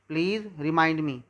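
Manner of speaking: very slow, each word spelled out clearly; slow model reading. Shown as a demonstration. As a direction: read it slowly for the learners to follow. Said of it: "teacher models the sentence slowly". (बहुत धीरे, साफ़-साफ़ बोलकर)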